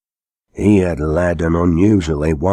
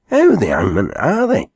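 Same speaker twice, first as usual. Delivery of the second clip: startled question; 6 semitones higher than usual. A narrator's reading. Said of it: "said the haymaker".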